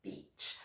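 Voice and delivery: BEACH very soft, with a drawn-out EE; exaggerated long E. Shown as a demonstration. Teacher prevents mistakes, slightly exaggerated long E. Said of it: "I'm exaggerating it slightly".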